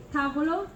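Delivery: "tavolo" with "ta" accented, "volo" gliding off; accent "ta", then slip through "volo" in "tavolo"; first syllable stressed, rest slipping. Shown as a demonstration. Teacher repeating the example, first-syllable stress. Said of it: "the sounds after that just slips".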